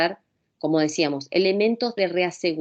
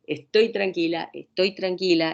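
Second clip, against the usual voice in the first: lento y sereno, para uno mismo; autocalma lenta. Shown as a demonstration. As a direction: calmarse repitiéndolo despacio. (diciéndose a sí misma, lento y sereno)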